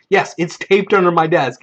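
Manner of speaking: acted insistence on "Yes"; retold convincing. Player convincing the storyteller, firm "Yes". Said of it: "trying to convince him".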